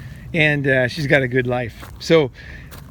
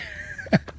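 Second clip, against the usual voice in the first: soft breathy chuckle; 9 dB quieter than usual. Real, not acted. Laughing at own playing.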